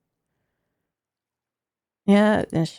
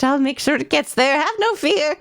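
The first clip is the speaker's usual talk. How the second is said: grandma voice. Acted. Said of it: "I was doing grandma voice".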